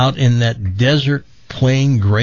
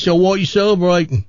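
higher, quick mock Aussie-British question; put-on Australian-British accent; 6 semitones higher, much faster than usual. Man asks the woman her news, mock Australian-British accent. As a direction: ask brightly in a fake Australian-British accent. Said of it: "what's with that accent".

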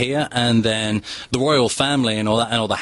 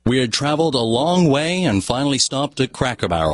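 American accent try; 3 semitones higher than usual. Shown as a demonstration. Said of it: "try it again".

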